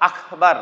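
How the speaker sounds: আখবার with a breathy kh instead of k; wrong Akhbar. Shown as a demonstration. Teacher shows the common mistaken আখবার to students. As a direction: say আখবার, turning the k into kh. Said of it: "অথবা".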